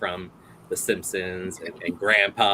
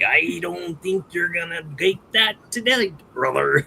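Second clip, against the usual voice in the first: higher-pitched put-on wrestler voice; wrestler impression; 7 semitones higher than usual. Wrestler fighting over the last blouse, put-on voice. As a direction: challenge him like a hammy pro wrestler. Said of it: "Macho Man and Hulk Hogan go dress shopping".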